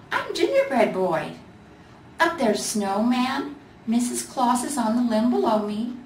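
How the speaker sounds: lightly voiced cheery ornament; a proud ornament introducing friends; Gingerbread Boy.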